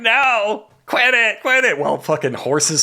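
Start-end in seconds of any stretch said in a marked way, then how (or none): 0.0-1.8 high whiny nerd pleading. Retold or imitated. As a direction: whine it like a nerd. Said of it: "in the background going".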